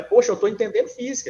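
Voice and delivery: delighted student. Retold or imitated. Teacher voicing a student who gets physics, delighted. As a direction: imitate a student thrilled to be understanding.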